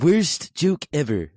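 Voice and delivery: slow, loud, drawn-out mock groan; hammed-up self-scolding; mock disgust. Mock groan at own joke.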